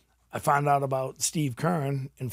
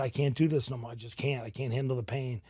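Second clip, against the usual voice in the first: tearful plea; 4 dB quieter than usual. Retold or imitated. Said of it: "I start crying".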